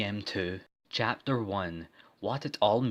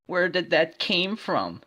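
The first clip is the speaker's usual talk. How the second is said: startled question; 8 semitones higher, 3 dB louder than usual. Acted.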